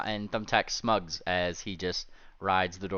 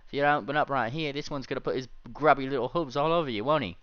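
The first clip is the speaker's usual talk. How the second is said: fast, taunting threat to a door; menacing threat; 5 semitones higher, 3 dB louder, faster than usual. Acted. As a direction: needle the door like a bully.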